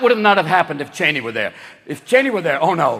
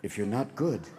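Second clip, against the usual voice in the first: very soft, low bogeyman warning; spooky hush; 12 semitones lower, 15 dB quieter than usual. Retold or imitated. Parent frightening a child about the Cheney man, hushed and low. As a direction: scare a little child quietly. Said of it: "you just have to say".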